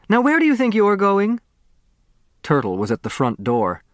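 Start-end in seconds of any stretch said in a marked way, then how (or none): 0.1-1.4 sharp demand. Acted. Mother stops daughter at door.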